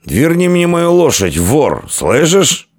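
put-on high, slow drunken demand; loud, arrogant accusation; Феодогат haughty. A narrator's reading. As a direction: demand it imperiously, dragging the words. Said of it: "надменно произнёс Феодогат".

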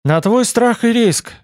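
high, slow announcement; lifted, teasing warning; playful proclamation. A narrator's reading. Pupil answers teacher before experiment.

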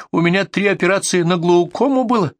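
high-pitched granny dismay; horrified old woman. Acted. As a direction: refuse in exaggerated pious horror. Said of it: "старушка в священном ужасе".

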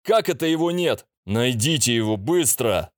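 shrieking high shout of fury. A narrator's reading. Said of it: "крик демона".

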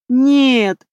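a pitiful cry of no; plaintive. A narrator's reading. Lilya rejecting the drunk guess, high plaintive cry. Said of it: "жалобно ответила она".

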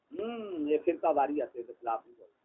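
low, quiet mock caution after a hum; sarcastic, subdued low warning; mock hushing. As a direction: hum softly, then warn under your voice.

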